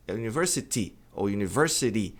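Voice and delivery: university ending clearly in an I sound, T or flapped D; both correct takes of university; correct pronunciation. Shown as a demonstration. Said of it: "Tem um I no final". (pronúncia correta de university)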